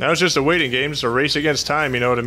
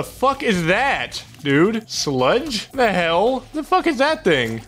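startled; 6 semitones higher, slower than usual. Real, not acted. Startled by new enemy.

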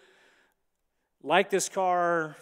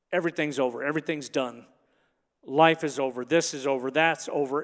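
despairing; 4 semitones lower than usual. Acted. Voicing despair in the moment.

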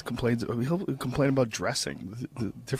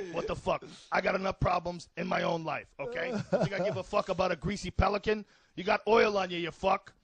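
higher, softer indignant comic rant; Joey Diaz; 7 semitones higher, 4 dB quieter than usual. Acted. Impersonating the friend ranting about an oily pelican, indignant. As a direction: play a callous, put-upon loudmouth. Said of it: "Diaz complains about shit".

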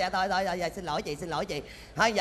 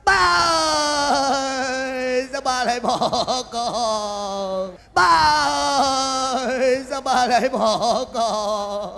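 half-hearted wail; 3 semitones higher, 3 dB louder, much slower than usual. Acted. Hired mourner wails, half laughing.

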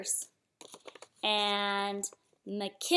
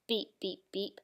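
low, very quiet beeps; soft echoed beeps; 6 semitones lower, 11 dB quieter than usual. A narrator's reading. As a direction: let the horn fade into the distance. Echo of the beep, read softly.

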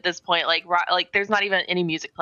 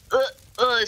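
hammed-up nauseous retching groans; over-dramatic gagging; 5 semitones higher than usual. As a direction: gag theatrically at the smell. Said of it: "just over dramatic".

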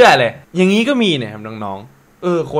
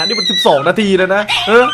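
excited reread; 4 semitones higher than usual. Real, not acted. Rereading funny meme caption.

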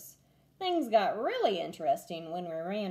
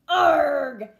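louder, very slow wailing pirates; 6 semitones higher, 9 dB louder, much slower than usual. A narrator's reading. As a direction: wail it after the sneeze. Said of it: "wailed the pirates".

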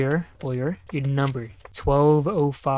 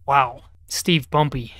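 voice cracking; slower than usual. Real, not acted. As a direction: voice cracks mid-joke. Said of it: "my fucking voice cracked".

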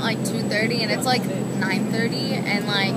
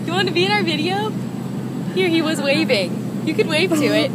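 excited; 6 semitones higher, 3 dB louder than usual. Real, not acted. Talking to a little boy.

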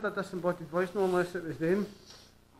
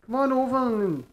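calling out; 2 semitones higher, 6 dB louder than usual. Real, not acted. Ghost hunter asks spirit to introduce itself, calling out. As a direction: summon someone hidden from across the room.

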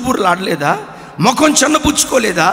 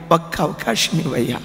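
pleading in tears; 8 semitones lower, 7 dB quieter than usual. Acted. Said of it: "ఏడుస్తూ అన్నాడట".

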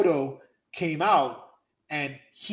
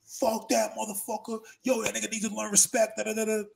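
mock angry fans; 6 semitones higher than usual. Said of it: "other people going like".

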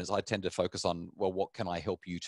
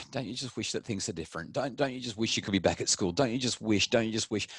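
empathetic wishing. Shown as a demonstration. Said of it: "we might just say".

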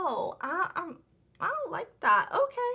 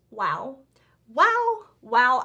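stunned repeated wow; amazed wows; 8 dB louder, slower than usual. Retold or imitated. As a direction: gasp out each wow in awe. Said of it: "But I'm just like".

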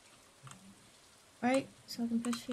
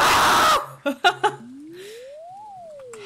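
high shrieking burst of laughter; startled high laughing scream; 13 semitones higher, 3 dB louder than usual. Real, not acted. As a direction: let out a squealing laugh. Shocked loud laugh at catch.

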